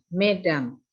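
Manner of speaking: "Mesdames" said as "medam", no s sound; silent s. Shown as a demonstration. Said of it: "S dalam Perancis jarang sekali diucapkan".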